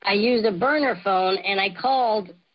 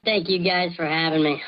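voice changer; 4 semitones lower than usual. Real, not acted. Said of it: "even with a voice changer".

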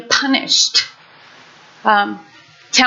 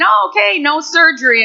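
relieved surprise; 6 semitones higher than usual. Retold or imitated. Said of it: "you know, saying".

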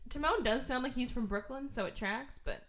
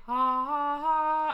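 mock laugh; 5 semitones higher, 8 dB louder, much slower than usual. Character laughing in retelling.

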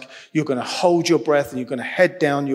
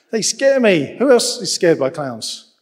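laughing cry; 4 semitones higher, 6 dB louder than usual. Real, not acted. Joking about fearing clowns.

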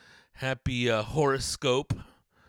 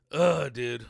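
ordinary talk, nothing marked

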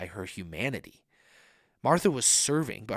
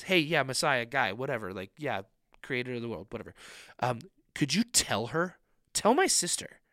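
dismissive sarcasm. Retold or imitated. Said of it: "And she says".

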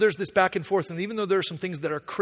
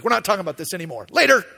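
curt dismissal; 6 dB louder, faster than usual. Acted. God ending the talk abruptly.

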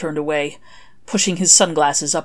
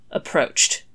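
whispered, doubtful repeat; skeptical echo. Acted. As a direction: echo the word with disbelief.

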